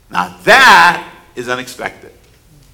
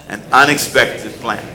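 unexpected plan said low and deliberate; call and response; 5 semitones lower, 3 dB quieter than usual. Shown as a demonstration. Preacher leading the congregation to repeat An unexpected plan. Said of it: "Can you say that with me".

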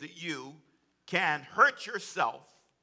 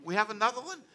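higher, repeated rising question; team's dismayed question; 4 semitones higher, 4 dB quieter, faster than usual. Retold or imitated. Sermon team facing yet another session, mild disbelief. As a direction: lightly mimic incredulous co-workers, each ending rising. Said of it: "they go".

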